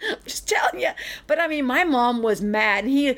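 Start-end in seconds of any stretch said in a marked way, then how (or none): 0.0-0.9 whispered laugh. Real, not acted. Laughing aside after joke.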